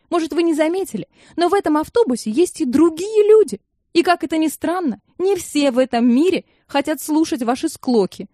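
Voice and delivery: high, loud shouting; furious outburst. A narrator's reading. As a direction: shout the whole family down. Irie yells at everyone. (высокий громкий яростный крик)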